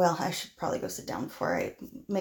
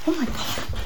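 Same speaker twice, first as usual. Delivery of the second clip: frightened outcry; 8 semitones higher, 5 dB louder than usual. Acted. Hears a gunshot in class.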